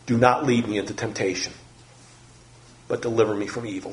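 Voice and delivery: soft, hushed prayer; quiet prayer. Real, not acted. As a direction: pray it softly, almost breathed.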